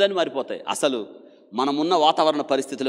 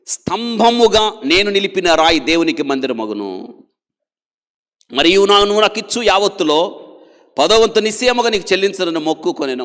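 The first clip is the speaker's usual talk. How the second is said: loud, high, ringing sermon reading; forceful preaching; 5 semitones higher, 9 dB louder than usual. Acted. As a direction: proclaim the verse to the whole hall. Preacher reads scripture forcefully. (బిగ్గరగా బోధించే స్వరం)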